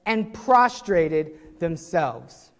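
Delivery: drawn out slowly, each word weighed; slow, solemn reading to stress the act; slow emphasis. Shown as a demonstration. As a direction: let the bowing sink in slowly. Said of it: "Did you guys catch what just now happened?".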